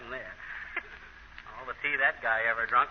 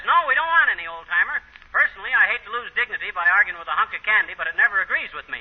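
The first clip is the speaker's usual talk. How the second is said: mocking Molly; 4 semitones higher, 4 dB louder than usual. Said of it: "She says".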